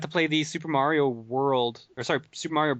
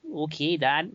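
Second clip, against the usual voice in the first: failed Pee Wee; 3 semitones higher, slower than usual. Retold or imitated. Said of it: "No, I can't even do it now".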